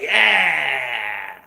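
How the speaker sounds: drawn-out martial-arts cry; mock kung fu holler; imitated fighter yell. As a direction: mimic an action-hero battle yell. Imitating his own Van Damme-style yell.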